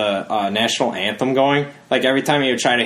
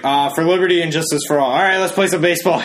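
quick, higher-pitched wrap-up; hurried announcer; 5 semitones higher, faster than usual. Retold or imitated. Announcer bailing out of the forgotten pledge, hurried mock announcement. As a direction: rush the last line, then lift into a cheery announcement. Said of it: "and he's like".

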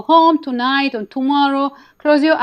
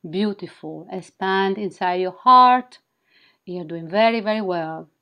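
sultry narrator. Acted. Leads a guided wing activation.

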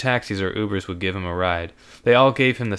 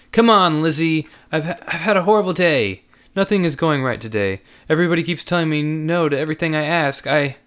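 higher, louder desperate pleading; pleading young man; 6 semitones higher, 4 dB louder than usual. Acted. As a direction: beg her to listen. Andrew pleading with Lizzie.

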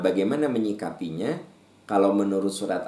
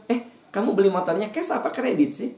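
nosy busybody; 11 semitones higher than usual. Acted.

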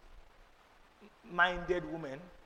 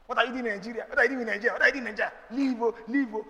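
nagging auntie; 3 semitones higher, 3 dB louder, much faster than usual. Retold or imitated. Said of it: "Her auntie has been on her neck".

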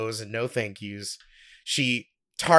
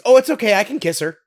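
high, loud, insistent offer; imitated come-on; 8 semitones higher, 8 dB louder, much faster than usual. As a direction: play a pushy stranger waving away the objection. Stranger makes a forward offer.

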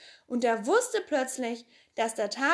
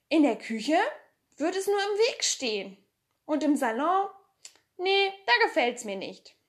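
thoughtful Pippi; 6 semitones higher, 4 dB louder than usual. A narrator's reading. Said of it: "sagte Pippi nachdenklich".

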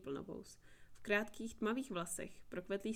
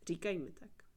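deep hoarse voice. Acted. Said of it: "Jeho hlas byl hluboký a chraplavý".

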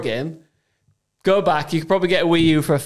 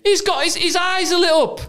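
horrified; 12 semitones higher than usual. Real, not acted. Horrified by game footage.

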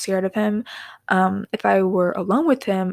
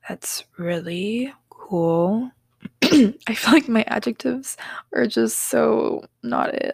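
whisper; 2 semitones higher, slower than usual. Real, not acted.

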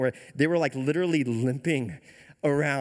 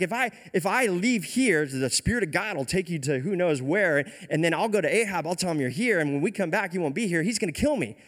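mock-worried protest, pitched up; low-key freak-out; 4 semitones higher than usual. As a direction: spin out a worst case in mild panic. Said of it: "has a low-key freak-out moment".

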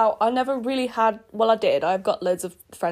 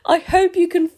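squirming, words stretched out slow; real cringe, groaning through it; cringing; slower than usual. Real, not acted. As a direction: cringe audibly. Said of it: "you can feel me cringe".

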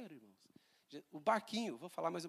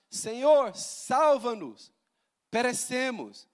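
loud pleading cry, drawn out; calling out; 6 semitones higher, 11 dB louder, much slower than usual. A narrator's reading. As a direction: call out to the sleeping Lord. (clamor alto e suplicante)

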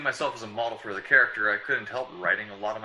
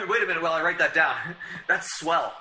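quick, louder laughing delight; laughing excitedly; 4 semitones higher, 4 dB louder than usual. Real, not acted. Writer breaking off rehearsal, laughing with delight. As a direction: laugh while rushing to note it.

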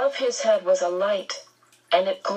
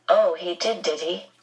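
sharp. Acted. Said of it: "there was a sharpness to the voice".

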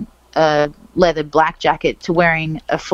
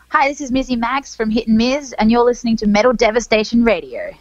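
put-on station tag in an American accent; radio ID with a put-on American accent; 5 semitones higher than usual. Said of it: "I put on American accent when I".

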